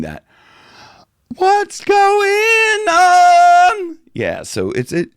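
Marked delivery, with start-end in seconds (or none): 1.3-4.0 very high, loud, slow belt from a yawn; high yawning shout. Shown as a demonstration. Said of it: "I can reach that with that yawning".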